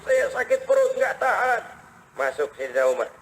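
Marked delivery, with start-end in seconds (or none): 0.0-1.6 high whine of pain, hammed-up; mock groaning. Sick man complaining of his belly, mock groaning. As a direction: imitate a man moaning with stomach ache. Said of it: "mengeluh, merintih".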